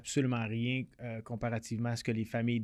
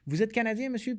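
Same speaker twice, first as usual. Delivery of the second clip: imitating the police officer; 10 semitones higher than usual. Retold police check at the border.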